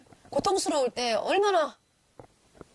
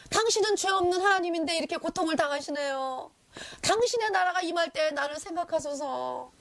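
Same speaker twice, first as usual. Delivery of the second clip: higher, earnest plea for mercy; a dying thief begging Jesus for mercy, raised pleading voice; pleading lament; 4 semitones higher than usual. Retold or imitated. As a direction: beg Jesus to remember him.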